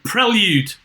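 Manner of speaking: "prelude" said "prell-yood" in Liverpool accent. Shown as a demonstration. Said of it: "how do you say it with your Liverpool accent".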